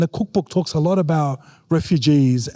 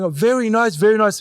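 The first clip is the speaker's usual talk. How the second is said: unimpressed mum; 4 semitones higher than usual. Retold or imitated. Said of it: "she'll be sitting there going".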